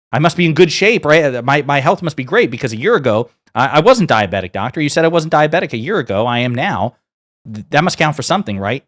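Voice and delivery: mock-indignant patient reasoning aloud; insistent protest. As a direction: argue your case to the doctor in agitated bursts. Patient arguing with the doctor.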